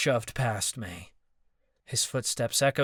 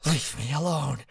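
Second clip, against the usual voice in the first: snap; 3 semitones higher than usual. Acted. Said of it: "he snapped".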